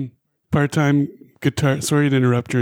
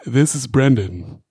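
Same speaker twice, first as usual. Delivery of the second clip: sultry voice; 3 semitones lower than usual. Pretend. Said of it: "This is my sultry voice".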